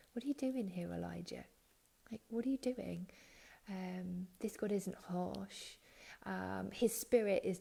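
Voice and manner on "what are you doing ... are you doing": gentle voice. Retold or imitated. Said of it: "This is a gentle voice that says to him".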